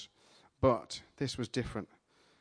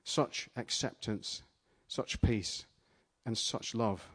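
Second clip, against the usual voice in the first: hushed awe; 2 semitones lower, 6 dB quieter, slower than usual. Acted. Awed recollection of God's love.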